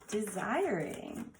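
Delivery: ordinary talk, nothing marked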